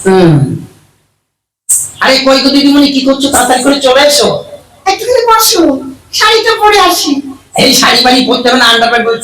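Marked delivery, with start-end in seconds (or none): 2.0-4.3 calling out. Acted. Man calls woman, high voice. 4.9-7.1 very high falsetto woman; woman's voice. Acted. Woman asks him to wait while she dresses, falsetto.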